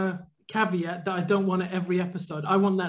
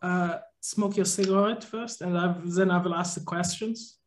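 lightly put-on German therapist voice; a hint of a German shrink; German accent. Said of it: "you're gonna do a German voice as well".

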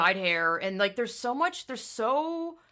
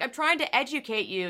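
mock preachy teen; 5 semitones higher than usual. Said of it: "the girl was like".

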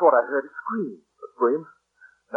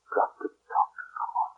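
frightened whisper; 3 semitones lower, 9 dB quieter than usual. Acted. Whispering to himself alone.

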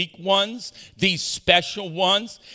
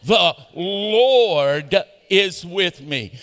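slow, stretched Texas drawl, louder; 3 dB louder, much slower than usual. Shown as a demonstration. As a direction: drawl it out like a proud Texan. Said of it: "say it like you believe in the Alamo".

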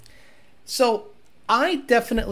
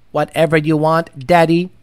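low, breathy sultry voice; sultry robot voice; 5 semitones lower, 3 dB louder than usual. Pretend. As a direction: purr it seductively like a robot. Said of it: "get a robotic voice".

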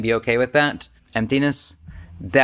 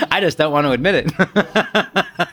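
laughing; 4 semitones higher, slower than usual. Real, not acted. Laughing confession.

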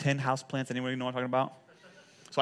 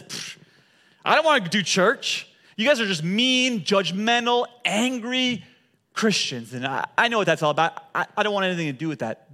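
scornful friend; 4 semitones higher, 4 dB louder than usual. Retold or imitated. Friend mocking church, quoted.

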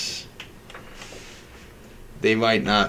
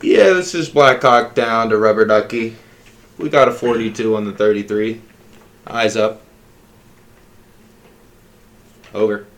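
walkie-talkie radio voice; 4 dB louder than usual. Pretend. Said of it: "I thought you were a trucker".

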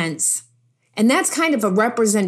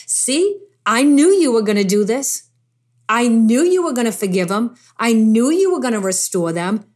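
aggravated Jonah. Retold or imitated. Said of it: "He's aggravated. He's like".

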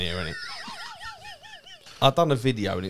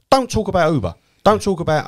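higher and louder, hammering the don't; emphatic rant; 9 semitones higher, 6 dB louder than usual. Real, not acted. Telling listeners with cab-driver relatives off, loud and higher. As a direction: jab each don't talk about.

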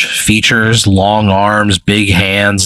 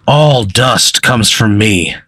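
mock scream; 3 semitones higher than usual. Chained creature answers the player's question in a mild mock scream. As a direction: declaim it in a restrained character scream. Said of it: "he screams at you. He goes".

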